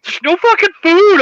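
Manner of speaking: high mock outcry; high, exclaimed crowd complaint; imitated outcry. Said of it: "people kept saying it over and over".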